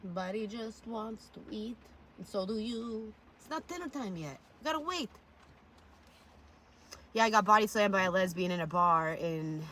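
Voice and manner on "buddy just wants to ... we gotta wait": high, soft pet-talk voice; sweet high-pitched pet talk. Real, not acted. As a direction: coo it to the dog, pitched up. Talking to a pet.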